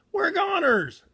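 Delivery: high, falling cry of doom; mock doomed groan; despairing wail. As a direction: wail that it's all over. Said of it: "Shaggy groaned".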